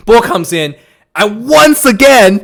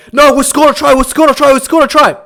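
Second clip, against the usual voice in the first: mock protest; 5 semitones higher than usual.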